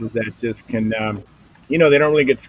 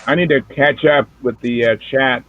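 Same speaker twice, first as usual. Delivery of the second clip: talking around chocolate; words round a bite of chocolate; mouth full. Real, not acted. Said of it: "chocolate in my mouth here".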